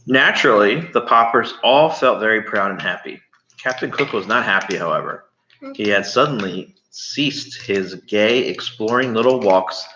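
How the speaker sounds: put-on reading a chapter aloud to a child; steady read-aloud narration; story reading. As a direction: tell it like a bedtime story. Reads the book aloud.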